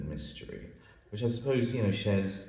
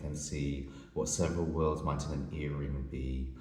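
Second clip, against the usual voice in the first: measured, even reading of rhymed verse; poem recitation. Acted. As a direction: read the couplets aloud, letting each rhyme land. Reads a poem aloud.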